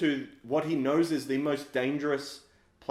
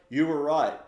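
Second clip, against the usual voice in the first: raised, louder scolding through laughter; mock furious rebuke; 9 semitones higher, 8 dB louder than usual. McConaughey's character yelling at the hero, laughing. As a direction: blast the hero for getting everyone killed. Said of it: "he's like".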